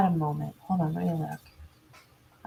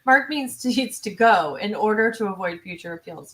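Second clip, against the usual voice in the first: with the correct inflection; 4 dB louder than usual. Shown as a demonstration. Streamer rereading a viewer's comment to the chat with pointed conviction. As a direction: read it again with pointed, emphatic conviction. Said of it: "Let me read that with the correct inflection".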